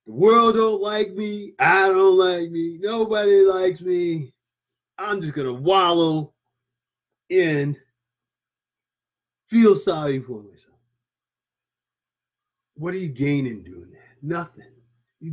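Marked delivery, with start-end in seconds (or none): 0.1-10.7 self-pitying whine. Retold or imitated. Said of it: "Feeling sorry for yourself".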